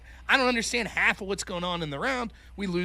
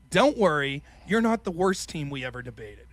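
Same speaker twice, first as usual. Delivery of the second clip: lower-pitched mock reassurance, lightly condescending; talking down; 5 semitones lower than usual. Rival girl after the round, lightly condescending. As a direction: console them with a subtle put-down. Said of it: "How dare you talk down to me".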